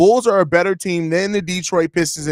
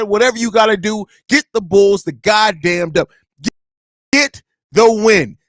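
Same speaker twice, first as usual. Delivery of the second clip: fired up. Real, not acted. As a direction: bark orders at the players like a fan. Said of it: "I'm a little bit fired up".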